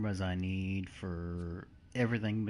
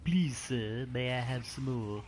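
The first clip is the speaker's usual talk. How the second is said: put-on little kid British voice; 4 semitones higher, 4 dB louder than usual. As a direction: ask meekly like a British child. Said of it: "my little kid British voice".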